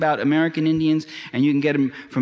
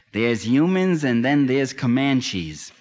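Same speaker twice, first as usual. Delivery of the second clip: quoting John Wayne; slower than usual. Retold or imitated. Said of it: "As John Wayne said in one of his horse operas".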